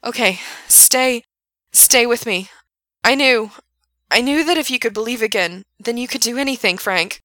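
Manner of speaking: high desperate yell. A narrator's reading. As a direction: shout to keep him awake. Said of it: "yelled Gerard".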